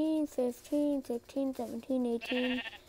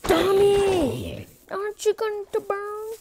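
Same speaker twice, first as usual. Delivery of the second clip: calling out; 7 semitones higher, 7 dB louder, slower than usual. Real, not acted. Calling out to friend.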